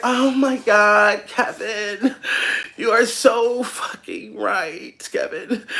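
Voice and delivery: slow, dreamy, breathless agreement; drawn-out starstruck sighing voice; mock awestruck woman. Woman swooning over Kevin's advice, slow mock awe. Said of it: "And the bitch like".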